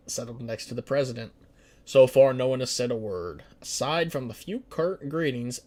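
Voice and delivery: dramatic narrator reading the event text; lightly dramatized narration of the cabinet scene; story narration. Acted. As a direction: read it like a political thriller. Reads game event as story.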